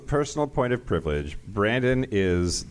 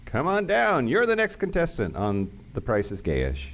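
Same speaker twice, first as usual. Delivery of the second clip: game show host; 4 semitones higher than usual. Pretend.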